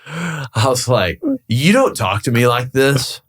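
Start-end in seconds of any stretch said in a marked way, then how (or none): 1.5-3.2 slow, higher indignant pushback; retold indignant rebuke. Broker retelling his rebuke to a rude tenant, indignant. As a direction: retell it as a firm, drawn-out warning.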